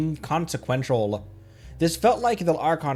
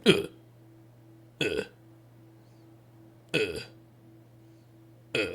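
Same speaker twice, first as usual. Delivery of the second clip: groaning crab impression; 6 semitones lower, 9 dB quieter than usual. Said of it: "That's my Bran impression".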